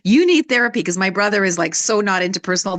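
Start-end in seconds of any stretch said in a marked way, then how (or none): 0.0-0.8 a mild mock yell, a bit louder; retold yell. Sister telling her brother off, mild mock yell. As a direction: jab at the brother, half-hearted shout. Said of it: "yelling at my brother and saying".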